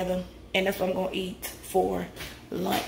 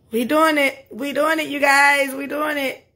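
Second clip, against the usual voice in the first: excited cheer; 4 semitones higher, 4 dB louder than usual. Real, not acted. Celebrating progress.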